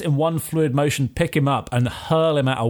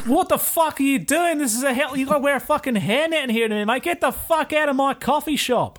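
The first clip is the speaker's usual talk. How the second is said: much higher, laughing mock outrage; outraged owner; 12 semitones higher than usual. Café owner ordering the disrobing barbarian out, high comic outrage. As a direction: yell at him in comic disbelief.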